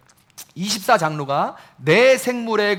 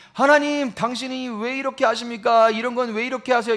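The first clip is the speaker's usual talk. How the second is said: mock complaint; 5 semitones higher than usual. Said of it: "이렇게 하는 게 아니라".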